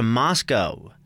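"Moscow" ending in -koh; long-o ending. Shown as a demonstration. Co-host naming next week's trip, "Moscow" with a long-o ending. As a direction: say "Moscow" to rhyme with go. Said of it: "I've heard it both ways".

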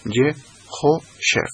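Yehoshef said slowly with a sh sound; Hebrew pronunciation. Shown as a demonstration. Teacher repeating how the name José is said. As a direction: draw out Yehoshef, shushing the s. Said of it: "se dice".

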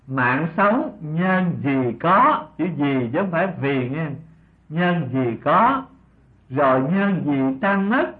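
slow, drawn-out recitation of a teaching verse; measured, lingering verse reading. Acted. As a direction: recite the verse slowly, stretching the line endings.

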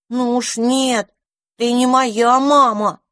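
put-on high, slow childlike refusal; stubborn little mouse. A narrator's reading. Little mouse backs away from stranger, stubborn refusal.

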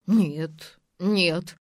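loud, panicked double no; scared stiff, protesting; frightened denial. A narrator's reading. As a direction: blurt it out in fright. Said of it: "окончательно перепугался Василий".

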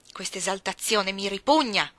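la zia risponde disgustata; disgusted. Acted.

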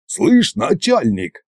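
high, slow cheeky little voice; stretched, high-pitched hail; small voice from box. A narrator's reading. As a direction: pipe up from inside a box. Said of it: "тихо донеслось из неё".

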